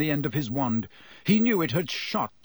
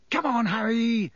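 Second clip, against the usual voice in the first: excited call; 8 semitones higher than usual. A narrator's reading. George calls Harry to party.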